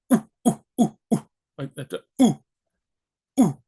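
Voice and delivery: short punched chimpanzee "ooh" hoots; chimp ooh. Shown as a demonstration. Teacher comparing the Spanish U to a chimp's hoot. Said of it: "almost like a monkey, chimpanzee".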